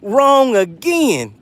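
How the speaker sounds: slow taunt. Real, not acted. Taunting the loser Chicken Hawk.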